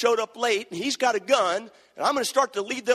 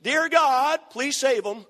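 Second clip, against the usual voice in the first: loud, pleading cry, higher and louder; retold crying prayer; 5 semitones higher, slower than usual. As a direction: cry out to God like a weeping old father. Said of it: "started crying out loud and saying".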